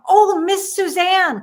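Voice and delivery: slow, effusive mock welcome; delighted recognition. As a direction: greet a remembered guest with exaggerated delight. Hotel man recognises her on phone.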